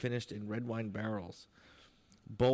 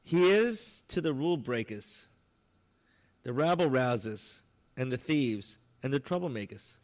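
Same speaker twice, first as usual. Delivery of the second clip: put-on louder, full New York accent on the toast; 6 dB louder than usual. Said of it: "with a complete New York accent".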